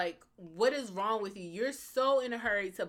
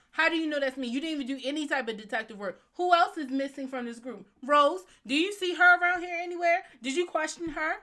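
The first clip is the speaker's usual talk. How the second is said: indignant interrogation, higher and louder; Jason Todd; 7 semitones higher, 6 dB louder than usual. Acted. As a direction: confront the accusers with heated questions. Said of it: "if I was Jason Todd".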